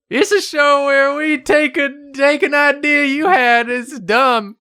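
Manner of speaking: high excited intro; hyped up. Acted. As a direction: pump up the show intro.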